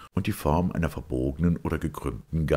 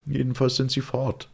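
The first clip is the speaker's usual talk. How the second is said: curt; 11 semitones higher, 3 dB louder than usual. A narrator's reading. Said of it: "sagte Boyle kurz angebunden".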